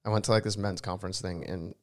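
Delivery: hoarse, worn-out voice; talking through a shot, hoarse throat. Real, not acted. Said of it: "my voice is shot".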